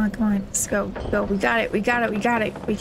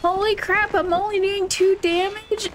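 high disbelieving laugh; can't believe the damage; incredulous; 9 semitones higher than usual. Real, not acted. Low damage again.

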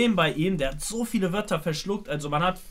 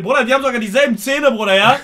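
higher, louder and fast, all fired up; excited; 5 semitones higher, 8 dB louder, faster than usual. Real, not acted. Host excitedly noting the brothers' teeth, fast and loud. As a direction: rush it out in amused excitement.

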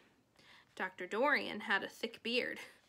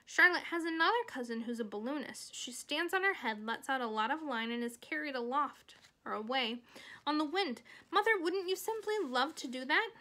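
lightly voiced excited child, higher at the end; Fern, enthusiastic girl; 4 semitones higher, 4 dB louder than usual. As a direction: share a marvel, then plead for agreement. Voices Fern's enthusiastic tale.

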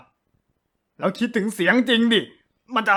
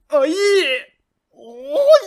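pained yelp; 9 semitones higher, 4 dB louder, much slower than usual. Acted. Kicked in the hip, falls.

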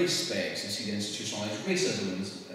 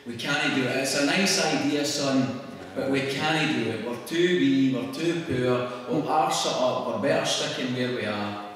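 mock defeatism; 2 semitones higher, 4 dB louder than usual. Voices the Scottish cringe.

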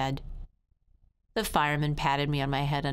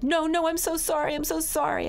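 put-on high-pitched frantic little-kid begging; small high voice, desperate apology; pleading child; 12 semitones higher than usual. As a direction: beg like a child in trouble. Small child begs the principal.

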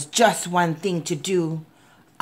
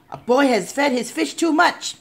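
high-pitched alarmed announcement; urgent report; 7 semitones higher than usual. A narrator's reading. Policeman reports emergency by radio.

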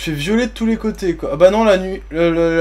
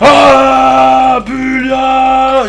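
shout; 6 semitones higher, 8 dB louder, much slower than usual. Real, not acted. Shouting in game panic.

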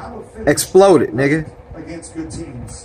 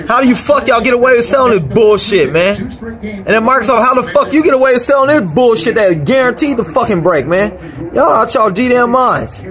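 angry rant; 5 semitones higher than usual. Real, not acted. Ranting at sellers and Microsoft.

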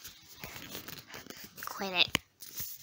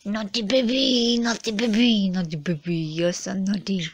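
playful scolding; 5 semitones lower, 6 dB louder than usual. Real, not acted. Mum playfully scolding baby.

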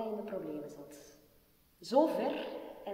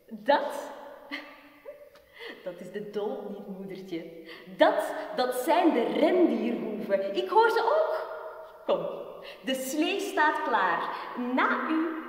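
bright, loud and high, with a nervous laugh; forced cheer; 4 semitones higher, 9 dB louder than usual. Acted. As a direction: play it up to hide the fear. Peer lies to dying mother.

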